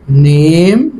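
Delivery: نيم slow, a said like ay; saying name. Shown as a demonstration. Teacher slowly modeling نيم, a said like ay. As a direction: stretch نيم, a said like ay. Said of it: "بيلفظ زي مين؟ الياء".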